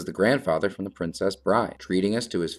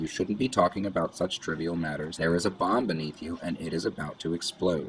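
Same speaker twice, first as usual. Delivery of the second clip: normal talking voice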